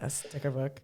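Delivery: low, flat mock-unimpressed echo; imitating deadpan. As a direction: mimic a skeptical partner, deadpan. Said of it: "I knew you would react like that".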